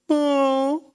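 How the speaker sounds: mopey, slow Eeyore sigh of self-pity; a light imitation of Eeyore moaning. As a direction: play a gloomy donkey, lightly. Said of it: "He pulls out the Eeyore thing".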